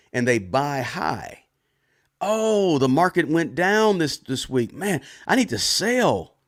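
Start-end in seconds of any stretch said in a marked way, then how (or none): 2.2-6.4 higher, hammed-up worry; mock panicked seller. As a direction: play the investor who panics when the market drops. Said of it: "they get emotional".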